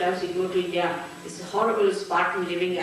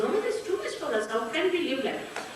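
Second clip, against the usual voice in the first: quick imitation of overwhelmed objectors; hurried protest; 3 semitones higher, much faster than usual. Americans refusing Spartan living, retold rushed protest. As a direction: rattle off a retold protest, higher-pitched at first.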